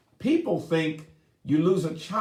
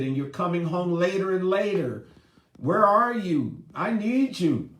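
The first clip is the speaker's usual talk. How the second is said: a touch higher, lightly voiced pleading; mildly pleading mom; 4 semitones higher than usual. Mother to absent husband, lightly voiced plea. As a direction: reproach him gently, rising at the end. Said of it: "the mom is saying".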